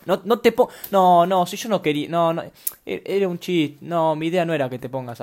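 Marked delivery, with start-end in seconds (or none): 0.1-3.8 flustered. Acted. Apologizing to an offended listener.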